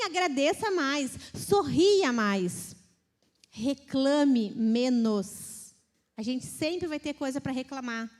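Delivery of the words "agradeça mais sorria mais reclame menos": very slow, loud, each word weighed; preacher drawing out the command, loud; emphatic slow exhortation. Real, not acted. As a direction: drive it home slowly.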